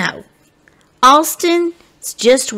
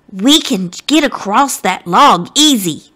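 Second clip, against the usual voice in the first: plucky grin. Acted. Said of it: "says Abe with a plucky grin".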